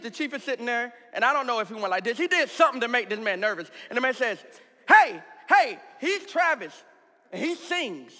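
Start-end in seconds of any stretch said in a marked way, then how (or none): 4.9-8.1 panicked captain. Retold or imitated. Nervous captain volunteers the speaker.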